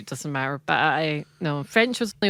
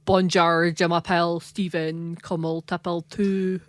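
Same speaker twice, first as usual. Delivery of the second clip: flat school French; 3 dB louder than usual. Retold or imitated. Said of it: "flashbacks to, like, high school French".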